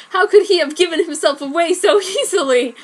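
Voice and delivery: high, loud, laughing; amused narrator laughing at the blunder; laughing narration. A narrator's reading. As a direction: crack up while asking it. Narrator mocks Dark's blunder.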